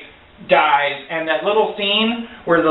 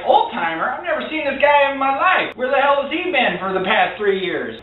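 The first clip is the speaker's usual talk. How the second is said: baffled fan; 6 semitones higher than usual. Retold or imitated. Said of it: "you're like".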